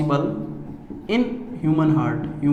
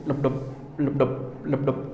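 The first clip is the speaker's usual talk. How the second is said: heart sound imitation; 5 semitones lower, 8 dB quieter, slower than usual. Shown as a demonstration. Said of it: "sound निकलती है ऐसे".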